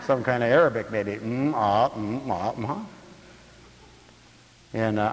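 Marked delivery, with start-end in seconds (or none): 1.1-2.9 mock counselor murmurs. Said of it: "what kind of language that is".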